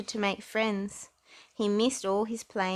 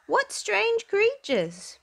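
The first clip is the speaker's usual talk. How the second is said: awed whisper; 14 semitones higher, 4 dB louder, much slower than usual. Acted. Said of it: "Percy whispered in awe".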